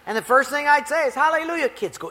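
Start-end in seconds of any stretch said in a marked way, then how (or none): 1.1-1.7 beaming, high Hallelujah called out; loud hallelujah greeting. Retold or imitated. Pastor greeting the church potluck with a loud, high hallelujah. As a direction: sing out Hallelujah as you walk in.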